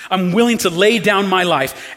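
a touch of a fervent loyal disciple; Peter's bold vow. Retold or imitated. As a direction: swear it boldly, like Peter. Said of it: "He's the one who said".

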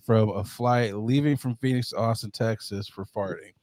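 low, even news-reader delivery; news article read. Acted. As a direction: read it out like a news report, deadpan.

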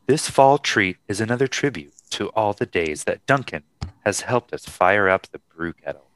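creepy serial killer voiceover; slasher killer. Acted. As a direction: read the label like a slasher killer. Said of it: "You sound like a fucking serial killer".

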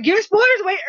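mocking echo. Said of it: "I'm like".

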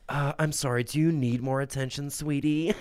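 a hint of a sassy flamboyant man, sneering sweetie; flamboyant guy. Mad guy at the table mocking him, a touch of camp sass. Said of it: "this really flamboyantly gay guy. And he was like".

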